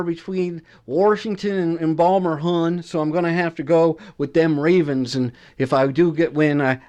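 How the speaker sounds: put-on a light Baltimore accent. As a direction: put on a hint of Balmer, hon. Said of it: "That's my best Balmer accent".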